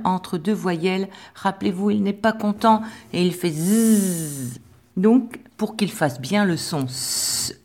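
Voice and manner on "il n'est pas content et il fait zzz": the lonely S grumbles and buzzes zzz; playful storytelling. Shown as a demonstration. Teacher giving the S a grumpy buzzing voice. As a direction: make the letter S sound grumpy. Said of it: "si le S, il est tout seul".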